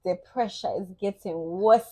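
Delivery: playful African accent impression. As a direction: put on an African accent, rising at the end. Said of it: "That was just my version of African accent".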